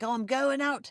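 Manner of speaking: imitated, attempted Irish accent. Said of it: "I can't do her accent".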